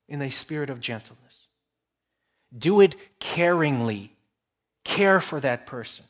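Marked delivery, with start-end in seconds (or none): 0.1-1.5 much softer echo of the phrase; softer repeat. Shown as a demonstration. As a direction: repeat it gently, almost to yourself.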